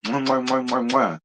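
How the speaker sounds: smacking air kisses; blown kisses. Real, not acted. Thanking Taylor for the Cash App with blown kisses. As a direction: blow a string of kisses.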